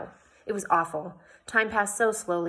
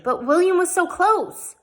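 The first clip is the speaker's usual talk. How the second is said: much higher, louder, slow lament; frustrated lament; 11 semitones higher, 8 dB louder than usual. A narrator's reading. Jane laments to Yella that William was so close. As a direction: ache over the near miss.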